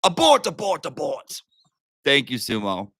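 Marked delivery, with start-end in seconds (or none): 0.0-1.4 mock alarm. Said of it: "And I told her".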